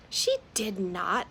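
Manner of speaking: slow, firm retort. Acted. Marzana defending her mother to Moth, slow firm retort. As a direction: push back slowly and firmly. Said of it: "Marzana retorted".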